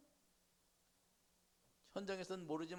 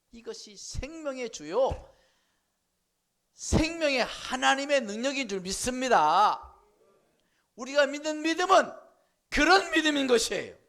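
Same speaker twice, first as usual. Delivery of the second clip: preaching at full force; 9 semitones higher, 18 dB louder than usual. Acted. Preacher proclaiming faith to the congregation, full force. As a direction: proclaim it to the rafters.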